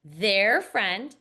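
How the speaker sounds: "Their friend" scooped as one chunk; "Their friend" as one rising phrase. Shown as a demonstration. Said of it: "say that with me".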